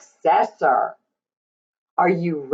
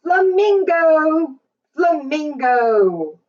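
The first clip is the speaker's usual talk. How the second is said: sing-song refrain; 9 semitones higher than usual. Acted. Read-aloud refrain to child.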